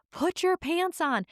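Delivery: high, drawn-out mock yell; imitating screaming mom. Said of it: "my mom starts screaming".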